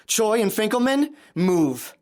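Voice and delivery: high, loud commanding shout; barked order. Acted. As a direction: snap the order at them. Gunman orders hostages.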